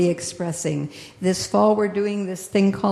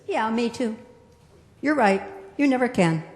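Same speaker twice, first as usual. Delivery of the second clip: agreeing naysayer; 4 semitones higher than usual. Acted. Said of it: "somebody that says".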